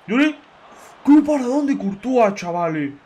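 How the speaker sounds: high, loud burst of delight; excited cheer. Real, not acted. Streamer hyping his keeper's save, loud excited cheer. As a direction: shout it as the keeper makes the save.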